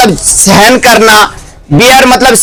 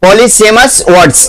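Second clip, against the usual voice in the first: polysemous words drawn out very slowly; slow, careful classroom pronunciation; slow teaching demo; 2 semitones lower, much slower than usual. Shown as a demonstration. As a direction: say each syllable slowly for the class. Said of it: "क्या कहते हैं इसको?".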